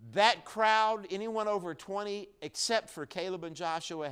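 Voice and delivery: high and loud, pushing hard; impassioned pulpit declaration; loud preaching. Real, not acted. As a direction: keep the fire going. Preacher keeps the climax.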